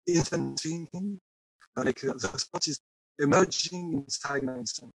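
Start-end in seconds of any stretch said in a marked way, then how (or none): 1.8-4.9 choppy broken connection; breaking up on a bad line; voice cutting out. Real, not acted. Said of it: "your voice is cutting in and out".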